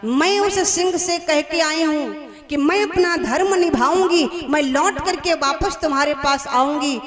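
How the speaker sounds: loud, high, resolute declaration; firm vow. Acted. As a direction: insist on keeping your word. Cow vows to keep promise.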